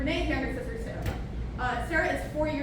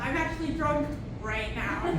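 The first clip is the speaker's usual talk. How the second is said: laughing; 2 semitones higher than usual. Real, not acted. Laughing through punchline.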